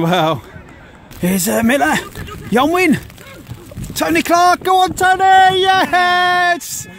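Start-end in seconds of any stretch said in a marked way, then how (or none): 4.0-6.9 loud urging yell, building up; excited yell. Real, not acted. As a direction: roar him on toward goal. Urging him on, hat-trick goal.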